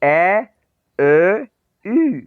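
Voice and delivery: ए ए यू as ä ö ü, called clearly; umlaut review. Shown as a demonstration. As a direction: run through the three umlauts. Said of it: "ये देखें".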